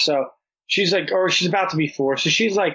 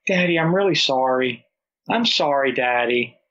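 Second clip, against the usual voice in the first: put-on pleading toddler. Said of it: "now she knows how to play me".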